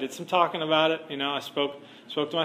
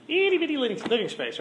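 much higher genie voice; 9 semitones higher than usual. Retold or imitated. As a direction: pinch the voice up like the genie. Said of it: "and he's like".

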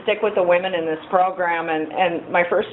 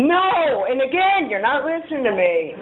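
indignant insisting; 6 semitones higher than usual. Retold or imitated. Insisting to sponsor.

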